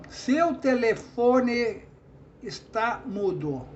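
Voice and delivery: slow, measured syllables on "seu telefone"; slow scanning. Shown as a demonstration. Teacher showing how syllables join, slow scanning. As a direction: draw out "telefone" beat by beat. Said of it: "foneticamente você fala numa sílaba só".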